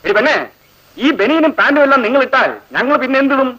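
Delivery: high, sneering mock official; mock minister. Seniors ragging juniors, high sneering mock authority. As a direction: lord it over them with a sneer. Mocking ragging of new girls.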